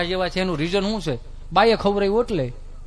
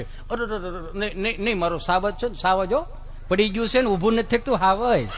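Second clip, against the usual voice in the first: soft, much quieter cooing; soothing mother; 5 dB quieter than usual. Retold or imitated. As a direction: hush the little lion tenderly. (ધીમા અવાજે પંપાળતી મા)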